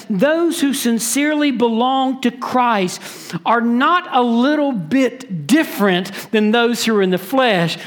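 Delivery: deliberate emphasis on "not a little bit different"; emphatic. Retold or imitated. Preacher paraphrases Paul to believers, emphatic "not a little bit different". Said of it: "So emphatically, he says".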